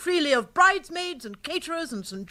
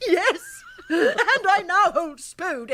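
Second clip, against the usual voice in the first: slow, laughing triumph; gloating laugh; 4 semitones higher, 3 dB louder, much slower than usual. Acted. Aunt gloating to Bertie over Spode. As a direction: savour it with a chuckle.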